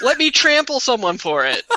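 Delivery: high, laughing, joking outrage; mock the shoppers through laughter; laughing mockery.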